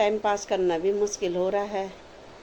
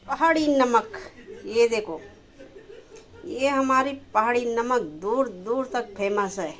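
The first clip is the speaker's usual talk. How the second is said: laughing proudly. Real, not acted. Proud of her hill salt.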